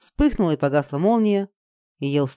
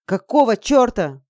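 louder, slower, higher angry snap; angry bark; 5 semitones higher, 4 dB louder, slower than usual. A narrator's reading. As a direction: bark it at her. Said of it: "рявкнул Саша".

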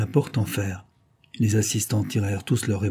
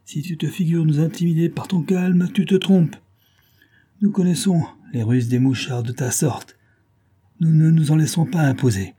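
higher, louder furious taunt; angry shout; 7 semitones higher, 3 dB louder than usual. A narrator's reading. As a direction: hurl the words at the prisoner. Thompson shouts at the detective.

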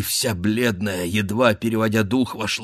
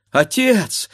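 higher, louder cry to her father; pleading cry; 10 semitones higher, 4 dB louder than usual. Acted. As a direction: call out to stop him. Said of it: "вскричала Катерина".

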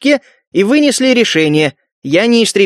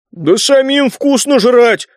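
slow, higher, outraged cry; indignant shout; 5 semitones higher, slower than usual. A narrator's reading. Ze mocking the priests, indignant outburst. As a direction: spit out the grievance. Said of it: "возмущённо выкрикнул Зе".

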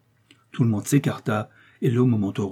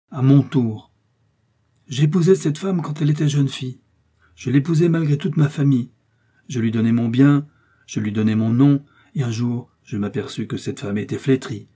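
bitter, solemn voice, louder at first then sinking; grave wronged husband; 4 dB louder than usual. Acted. Athos testifies against his wife, grave and bitter. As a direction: lay out the betrayal one blow at a time.

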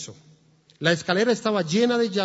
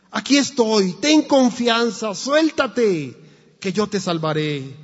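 loud, urgent reassurance; father reassuring shout; 4 semitones higher, 6 dB louder than usual. Acted. Father below calls up to his frightened son, loud and reassuring. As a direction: shout up steady and urging. Father answering child in fire.

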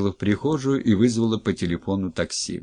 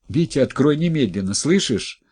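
urgent demand; 6 semitones higher, 4 dB louder than usual. Acted. Wife demands he open door.

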